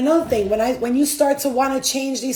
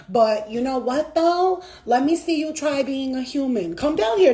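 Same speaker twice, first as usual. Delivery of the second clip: retold taunting; 3 semitones higher than usual. Human daring spirit guides to be human, taunting. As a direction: re-enact daring someone to swap places. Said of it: "I'll be cursing them out".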